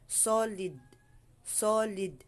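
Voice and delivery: "solid" slow, with a heavy SO; thick S. Shown as a demonstration. Teacher gives the example word for sod, thick S. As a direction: lean on a thick, rounded "so" in "solid". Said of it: "Makapal siya".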